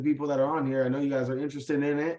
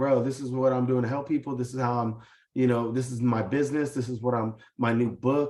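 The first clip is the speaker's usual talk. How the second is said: ordinary delivery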